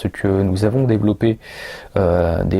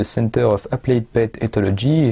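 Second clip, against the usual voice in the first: nom anglais dit avec un accent anglais maladroit de Français; accent anglais approximatif. Real, not acted. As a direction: prononcer à l'anglaise, sans trop y arriver. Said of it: "Je suis désolé pour mon accent anglais". (un Français qui tente l'accent anglais sur un nom d'institut)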